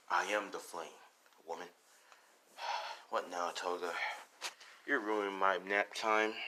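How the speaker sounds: weary, lightly voiced grump; Dabi. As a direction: sigh and grumble at the interruption. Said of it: "Dabi's like".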